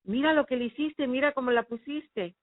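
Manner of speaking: family scolding the daughter for upsetting her mother; angry scolding. Retold or imitated. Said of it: "no me dejaban hablar".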